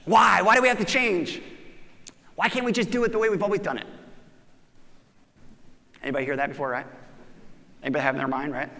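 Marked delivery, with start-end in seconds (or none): 0.1-3.9 mock whiny protest. Team resists change, whining.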